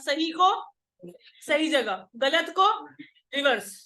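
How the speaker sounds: "सही को" and "गलत को" left rising, answers falling; call-and-response drill, "रिवर्स" landed with a falling close; leading class recitation. Shown as a demonstration. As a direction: prompt the class to chant along, pausing after "सही को" and "गलत को". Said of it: "दोबारा बोलो मेरे साथ".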